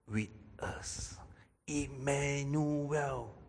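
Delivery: hushed whisper, drawn out slowly. Shown as a demonstration. Preacher hushes God with us to the church. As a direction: breathe the words out in a whisper.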